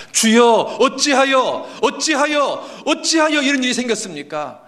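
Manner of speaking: high, loud wailing protest; stretched, pleading cries of why; impatient outcry. Acted. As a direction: cry out to God in hammed-up anguish. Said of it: "하나님에 대해서 오래 참지를 못합니다".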